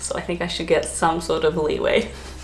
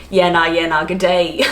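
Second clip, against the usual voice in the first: full Aussie. Retold or imitated. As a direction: slip into a broad Australian accent for fun. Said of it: "And be like full Aussie".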